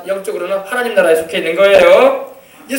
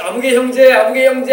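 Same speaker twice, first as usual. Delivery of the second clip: mock hail, louder, slightly raised; calling by name; 3 semitones higher, 5 dB louder than usual. Departed missionary coming closer to the pastor, calling out. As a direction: call out as if approaching a friend. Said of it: "가까이 다가오면서 막 웃는 거예요".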